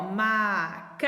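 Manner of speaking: macaco said slowly in parts; counting beats; slow syllables. Shown as a demonstration. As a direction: split macaco again. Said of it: "Eu abri três vezes".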